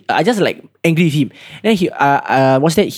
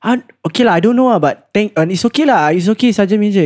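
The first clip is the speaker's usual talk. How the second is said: higher, easygoing reassurance; cheerful kid; 5 semitones higher than usual. Retold or imitated. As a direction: brush it off happily. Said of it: "Then he was like".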